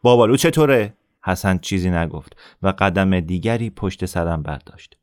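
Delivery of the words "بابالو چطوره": raised, sneering call; bully's taunt. Acted. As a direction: jeer at the smaller boy.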